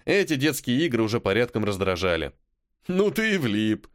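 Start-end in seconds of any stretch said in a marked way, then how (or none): 2.9-3.9 slow, higher, fake pity; Igor's show of sympathy; mock sympathy. A narrator's reading. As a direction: pretend to feel for him, gloating. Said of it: "с показушным сочувствием прошептал Игорь".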